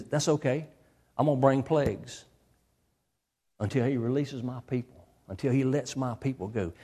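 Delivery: low, softened divine assurance; lightly voiced God, quietly certain; calm God. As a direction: answer softly and low, unworried. God calmly answers Moses.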